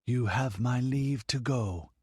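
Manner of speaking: slow, lofty goddess granting leave; imperious dismissal. A narrator's reading. The false goddess dismisses the priests, lofty and imperious. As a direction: wave them away with your voice. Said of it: "with an imperious gesture of dismissal".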